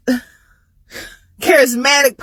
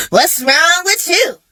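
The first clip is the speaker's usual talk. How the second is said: higher, slow, annoyed "what's wrong with you"; exasperated daughter, first ask; annoyed question; 5 semitones higher, slower than usual. Retold or imitated. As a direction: ask it slowly, already fed up. Annoyed at mama calling repeatedly.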